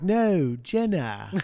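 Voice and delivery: mock British accent; a quick English accent. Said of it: "That's my British accent".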